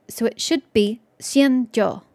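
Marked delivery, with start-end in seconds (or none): 1.2-2.0 "xianjiu" said slowly, syllable by syllable as xian-jiu; "xianjiu" spelled out slowly in two parts; careful pronunciation. Shown as a demonstration. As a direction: sound out "xianjiu" as a careful guess. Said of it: "And then jiu is one".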